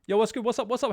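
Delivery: playful imitation of a streamer welcome; mock streamer greeting. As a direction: greet the chat like a hyped streamer. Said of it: "You're saying".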